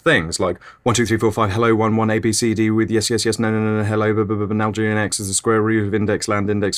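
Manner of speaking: mock fast thinking. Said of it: "I can think really fast".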